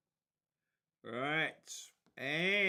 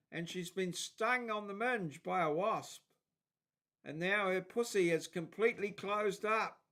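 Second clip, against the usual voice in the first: a little higher than own chat, reading a call; lightly acted helpline call; 4 semitones higher than usual. Streamer rereads Aussie helpline joke he likes, lightly acted phone call. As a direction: lightly replay the helpline exchange.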